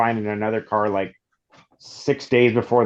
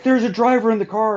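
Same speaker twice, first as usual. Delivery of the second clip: mock protest; 12 semitones higher, 5 dB louder than usual. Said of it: "and he's like".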